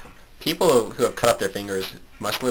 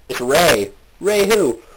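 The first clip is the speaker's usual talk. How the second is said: loud, high-pitched hammed-up delivery; shouted joke punchline; 9 semitones higher, 6 dB louder, much slower than usual. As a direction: build to a drawn-out mock yell. Shouted mock knock-knock joke.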